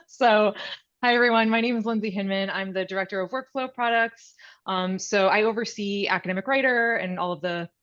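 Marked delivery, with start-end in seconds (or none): 0.1-2.5 expressive greeting. Real, not acted. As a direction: greet them big and expressive. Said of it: "I'll just try to be very expressive with my voice".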